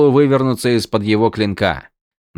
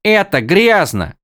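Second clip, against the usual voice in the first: high character voice; 10 semitones higher, 4 dB louder, slower than usual. Acted. Windel reacts, higher.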